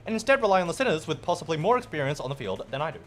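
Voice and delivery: normal talking voice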